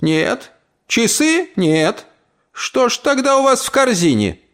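put-on high, fussy old aunt; aunt Tilde voice. Old aunt questions the young man in black, high and fussy. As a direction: play the suspicious old aunt.

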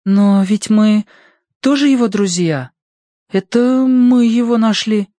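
put-on hesitant high child's objection; uncertain. A narrator's reading. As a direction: object slowly and unsurely, pitched high. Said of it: "неуверенно возразила Прошка".

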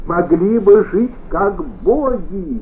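high, loud, slow burst; husband ranting about the household; sudden shout. A narrator's reading. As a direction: bellow it out of nowhere. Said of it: "закричал".

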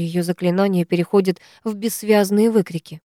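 ordinary delivery, nothing marked

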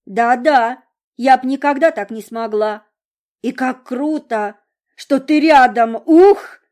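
put-on high, loud chirpy girlish gush; chirping. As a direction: chirp it like a bird. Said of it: "прощебетала Монро".

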